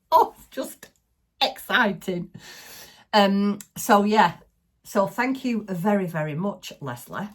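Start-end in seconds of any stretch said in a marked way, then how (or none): 0.1-2.3 high and louder gush of joy; excited. Real, not acted. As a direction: let the thrill spill over. Thrilled about the fairy lights.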